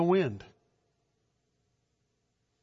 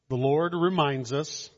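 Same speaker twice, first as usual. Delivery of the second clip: usual speaking voice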